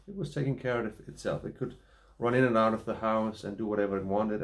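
talking around pipe stem; pipe in mouth. Real, not acted. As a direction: lips gripping a pipe. Seen 3: Hand keeps pipe at his mouth throughout; references show pipe lowered.

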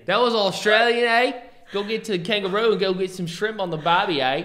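hammed-up Australian slang, not quite landing; a clumsy stab at Australian, eh at the end; bad Australian accent. Boyfriend teases girlfriend with a bad Australian accent. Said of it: "you're so bad at accents".

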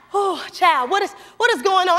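a hint of a startled parent calling out, quick. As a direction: lightly voice mom rushing in, fast. Parents voiced in a story.

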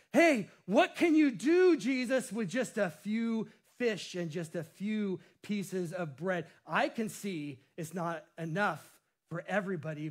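put-on eager boy asking what Jesus will do, fading; excited. Andrew eagerly bringing the boy to Jesus, excited then hushed. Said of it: "And with excitement goes".

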